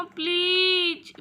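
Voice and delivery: a long, begging please; please dragged out slowly in a begging whine; drawn-out plea. Acted. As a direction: stretch the please out slowly like a whining child. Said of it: "कुछ करो ना मम्मा".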